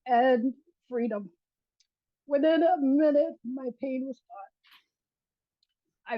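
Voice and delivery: choked up, fighting back tears; overcome, apologising for the emotion; close to crying. Real, not acted. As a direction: testify through real rising tears. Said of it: "I'm gonna cry".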